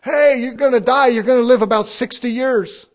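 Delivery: lightly voiced cheerful doctor; cheery doctor. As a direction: announce it like good news. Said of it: "the doctor come to you and said".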